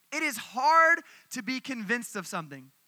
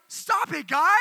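put-on much higher, pleading kid voice; mock whine to the big kids; whiny little brother; 6 semitones higher, 6 dB louder, slower than usual. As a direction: imitate a hurt little kid. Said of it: "he was like".

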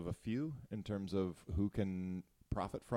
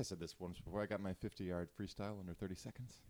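whispering; 2 semitones lower, 12 dB quieter than usual. Real, not acted. Quietly proud aside.

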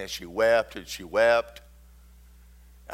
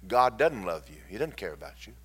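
devil's taunt; 3 semitones lower than usual. Retold or imitated. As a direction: lightly voice the devil whispering doubt. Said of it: "he's constantly telling you".

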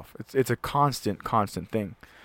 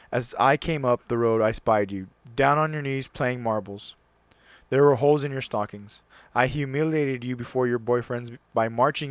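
reading aloud. Acted. Reading a father's letter to his sleeping son, earnest recital. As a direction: read the father's confession with feeling.

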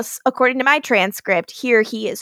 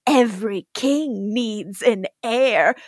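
Elijah impression; 2 semitones lower, slower than usual. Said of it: "Klaus does an Elijah impression".

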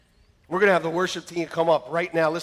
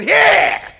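forced enthusiasm; 12 dB louder than usual. Retold or imitated.

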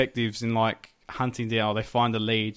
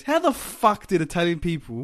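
higher, mock-indignant rant; mock outrage; 6 semitones higher, 4 dB louder than usual. Retelling a favourite coffee shop scene, in mock outrage. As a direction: imitate an indignant character ranting.

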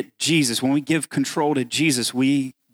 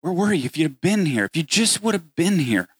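pleading Martha; 2 semitones higher than usual. Acted. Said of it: "she asked him".

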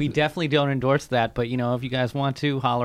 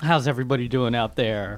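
radio voice. Acted. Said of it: "you sounded like a real radio voice there".

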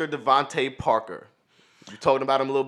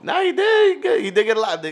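high, loud contradiction; raised-pitch pushback in friendly argument; insistent rebuttal; 12 semitones higher, 6 dB louder than usual. Real, not acted. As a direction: cut in high and insist, settling slightly. Cuts in to dispute the claim.

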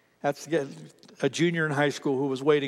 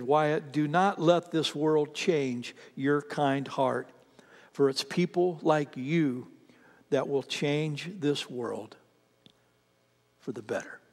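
1 tender reading; slower than usual. Retold or imitated. Reading mom's tender words to Wyatt.

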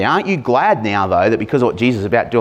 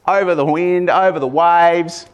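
shout over storm; 5 semitones higher than usual. Shown as a demonstration. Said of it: "So he shouted".

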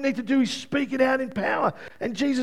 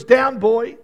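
louder, firm command to a dog; firm dog command, voicing Jesus; 7 dB louder than usual. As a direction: say it like calling a dog to heel. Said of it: "like he was speaking these words".

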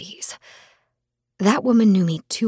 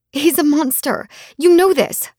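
sobbing plea; 8 semitones higher, 6 dB louder than usual. Acted. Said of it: "I sobbed".

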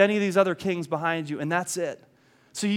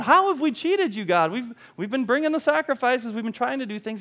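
indignant protest; 5 semitones higher than usual. Retold or imitated. The people protesting to God, higher and indignant. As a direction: protest the charge in disbelief. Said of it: "And they're indignant".

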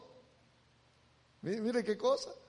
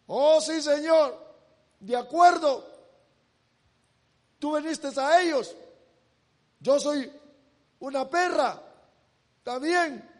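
louder, higher, eager humble yes; fervent agreement; 4 semitones higher, 5 dB louder than usual. Acted. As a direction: concede with passion. La mujer responde a Jesús. (aceptación ferviente, más alta y fuerte)

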